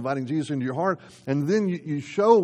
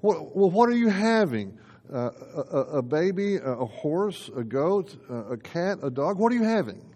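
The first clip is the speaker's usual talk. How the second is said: mock curious question; 4 semitones higher than usual. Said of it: "to prospective mom-to-be ... and say".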